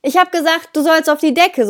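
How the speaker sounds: stamp and tell the dog off; firm dog command. Shown as a demonstration. Trainer shows owners how to correct a dog, firm command. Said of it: "auf den Boden stampfen und sagen".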